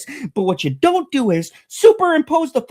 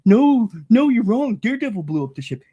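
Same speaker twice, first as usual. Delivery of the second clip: lower, fast mocking fan voice; mocking know-it-all fan; 4 semitones lower than usual. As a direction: sneer at the fans who got it wrong. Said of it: "sitting there going".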